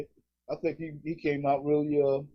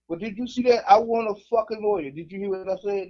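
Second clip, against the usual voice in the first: mock indignant demand; 8 semitones higher than usual. Demanding a lawyer from cops.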